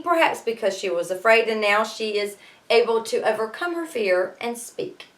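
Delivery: ordinary delivery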